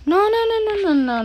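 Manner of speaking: high rushed string of nos; panicked nos. Real, not acted. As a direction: panic as it goes wrong. Panicked reaction in the game.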